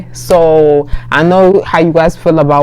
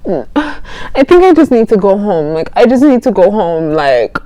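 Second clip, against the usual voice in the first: mock tearful plea, slightly raised; pretending to cry; 3 semitones higher than usual. Girl wanting to go home, feigned near-crying. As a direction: fake being on the verge of tears. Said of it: "pretending I was gonna cry".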